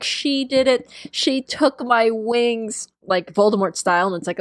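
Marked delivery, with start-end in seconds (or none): 0.0-2.9 mock crying. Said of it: "crying 'cause he's like".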